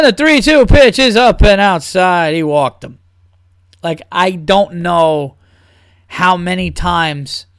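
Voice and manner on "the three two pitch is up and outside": droning announcer. Retold or imitated. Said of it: "how many times can they say".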